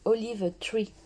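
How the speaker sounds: "Olive Tree" in English with a French accent. Real, not acted. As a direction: say "Olive Tree" slowly, as a French speaker would. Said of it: "faites pas attention à mon accent". (anglais avec l'accent français)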